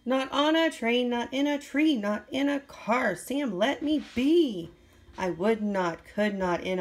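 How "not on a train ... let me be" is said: higher, pushed-out fed-up protest; hammed-up outrage at being pestered; exasperated refusal. Grouch refusing Sam's train, a hammed-up exasperated protest.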